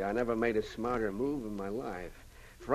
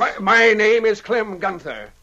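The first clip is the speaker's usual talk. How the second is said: scared stammer; 10 semitones higher, 10 dB louder than usual. Acted. Held at gunpoint, stammering.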